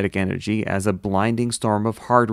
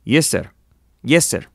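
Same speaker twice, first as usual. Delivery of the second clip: put-on Russian accent; 4 semitones higher, 4 dB louder than usual. A narrator's reading. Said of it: "I don't know how to say that".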